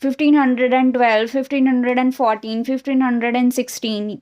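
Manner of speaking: loud, quick run of years; brisk, forceful recital of a common mistake; mock wrong reading. Shown as a demonstration. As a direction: rattle off the mistaken readings in a hurry. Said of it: "जैसे हम बोल देते हैं".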